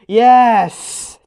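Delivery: loud, lifted cheer of relief; happy yes. Real, not acted. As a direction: celebrate the good box. Low value revealed.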